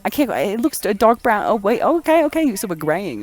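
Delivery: put-on British accent, faltering then recovering. Revising the description of the host's hair, British accent. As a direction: play a Renaissance Brit correcting themselves. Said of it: "I'm gonna stop being British".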